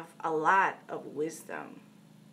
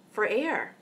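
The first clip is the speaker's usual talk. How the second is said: matter-of-fact. Retold or imitated. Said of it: "very matter-of-factly".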